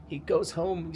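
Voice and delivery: hammed-up French storyteller, laughing at himself; badly faked French play narration, drawn out; horrible French accent. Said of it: "Enough of my horrible impersonation".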